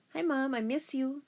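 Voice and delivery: high-pitched, affectionate hello; eager greeting. A narrator's reading. Daughter handed the phone to her mom, eager.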